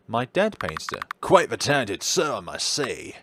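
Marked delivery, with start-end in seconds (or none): 1.2-3.2 a touch of the doctor's voice; the doctor remarking on a painting, lightly voiced; doctor character voice. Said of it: "I'm gonna drop this voice".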